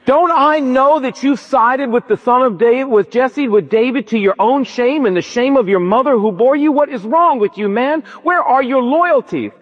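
hammed-up furious Saul cursing Jonathan; mock furious king. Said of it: "Saul went ballistic".

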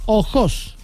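"Ojos" despacio, acentuado en la última, o-JÓS; acento agudo. Shown as a demonstration. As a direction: carga el acento de "Ojos" en la segunda o. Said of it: "con tilde en la segunda O". ("Ojos" dicho o-JÓS, como aguda)

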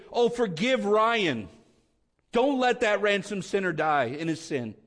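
impassioned pulpit pleading; pleading intercession. Acted. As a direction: beg the Father on a sinner's behalf. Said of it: "to plead for me before the Father".

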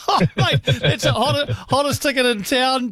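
excited. Real, not acted. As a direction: gush over the hottest ticket in town.

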